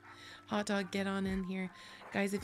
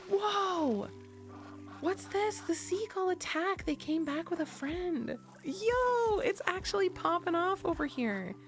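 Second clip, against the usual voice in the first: high-pitched, thrilled exclaiming; excited astonishment; 11 semitones higher than usual. Real, not acted. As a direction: react live to a sudden invasion. Seagulls suddenly swarm the ducks.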